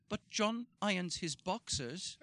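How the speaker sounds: put-on a cute little Swedish accent, drawn out; Maria's Swedish accent. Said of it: "with her cute little Swedish accent".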